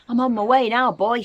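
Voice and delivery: put-on a gleeful old woman shouting down the stairs; Grandma calling down. A narrator's reading. Grandma calls down to George below, loud and gleeful. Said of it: "she called down to George".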